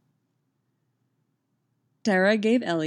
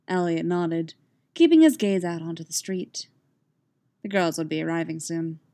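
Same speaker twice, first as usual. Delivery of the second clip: story narration. A narrator's reading. Reader telling listeners about Elliot waiting, measured narration. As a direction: read the story evenly and calmly.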